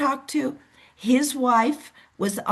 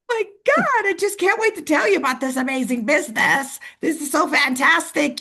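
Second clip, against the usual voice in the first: much higher, gushing with excitement; overexcited pitch; 6 semitones higher than usual. Retold or imitated. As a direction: gush like an overeager salesperson. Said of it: "if this was Antoinette, I would be".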